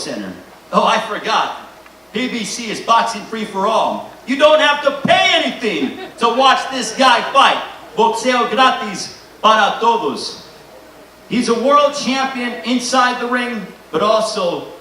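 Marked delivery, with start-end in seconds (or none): 4.3-10.5 laughing. Real, not acted. Joking that the fight is free.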